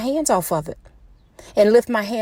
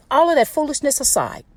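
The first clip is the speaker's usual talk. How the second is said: usual speaking voice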